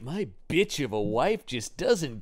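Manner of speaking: lightly voiced dramatic Heston; Heston impression. Host as Heston complaining about his wife, mock exasperation. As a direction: overdramatic mock-aggrieved husband. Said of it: "But he is going like".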